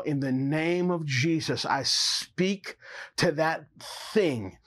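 slow, drawn-out commanding prayer. Acted. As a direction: command the healing slowly, with authority.

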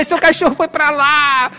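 loud, high, stretched-out holler; retold call, last word drawn out. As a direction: shout directions to someone far off. Calling out directions to dog's owner.

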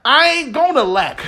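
sassy, defiant declaration with a laugh; nasty attitude. Shown as a demonstration. Preacher tells the church to sass the devil with attitude. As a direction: say it like a bad mama jamma to the devil. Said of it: "say this with a nasty attitude".

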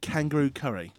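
a half-hearted, lightly voiced Australian accent; mild mock Australian accent; attempted Australian accent. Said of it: "your attempt of an Australian accent".

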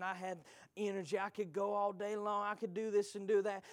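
lightly voiced wistful believer; half-hearted mock lament over lost strength; mimicking complainers. Preacher imitating church folk mourning past confidence, light mimicry. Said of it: "y'all heard people talk like this".

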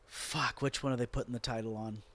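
fretting over who wins the title; worried thought. Retold or imitated. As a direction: rush it under your breath. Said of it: "and I'm thinking".

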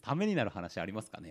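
ためになる話 read back with a doubting lilt; doubtful question. Shown as a demonstration. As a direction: question the claim, teasing. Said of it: "ないですね".

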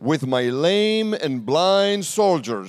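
slow taunting king. Acted. Preacher voices the taunting king.

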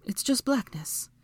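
high, slow answer; female character voice. A narrator's reading. Hermione peering into the dark below, in high voice.

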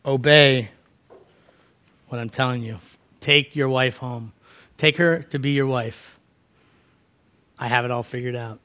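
low, soft, measured command; quiet divine instruction, unhurried pauses; voice of God. Retold or imitated. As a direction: speak softly and low, with calm authority. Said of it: "and God told him".

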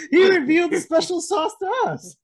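high, giggly through the words; laughing. Real, not acted. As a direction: tease him through laughter. Laughing at the reveal.

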